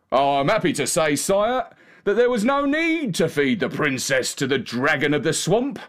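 lightly voiced cocky coachman; a hint of a swaggering coachman, rising in pitch; boastful coachman. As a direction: boast a little, like a self-satisfied servant.

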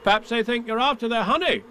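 put-on high, boyish suggestion; young boy's voice. A narrator's reading. Boy guesses what the bees suspect, high child voice. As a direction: offer it in a child's high pitch.

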